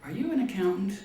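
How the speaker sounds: high, loud exchange between the two men; shouted joke dialogue. Retold or imitated. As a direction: deliver the punchline as a shout.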